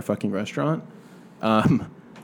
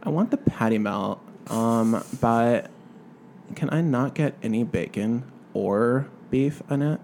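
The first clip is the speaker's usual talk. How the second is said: put-on Valley accent; slower than usual. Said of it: "she talked like this".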